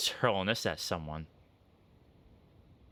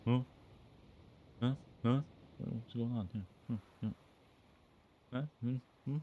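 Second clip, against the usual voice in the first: puzzled skull voice; 4 semitones higher, 3 dB quieter than usual. Acted. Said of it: "it's like".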